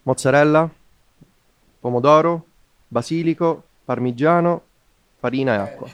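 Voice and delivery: Italian accent. Shown as a demonstration. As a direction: read each ingredient like a native Italian. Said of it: "in real Italian accent".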